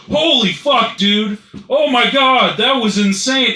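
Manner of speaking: high, loud, amazed bystander; imitating wild excitement; crazy energy. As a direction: gush like a hyped-up witness. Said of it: "all this fucking crazy energy".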